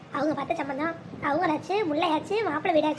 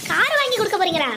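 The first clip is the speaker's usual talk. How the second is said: indignant disbelief; 4 dB louder than usual. Acted. Wife learns of car plan.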